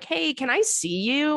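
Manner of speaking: high, slow sweet little ask; mock needy plea. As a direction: girlfriend imitating herself asking to meet, high and slow. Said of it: "all you're doing is being like".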